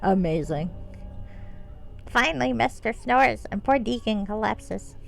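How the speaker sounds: lightly voiced kobold, broken English; rough kobold voice.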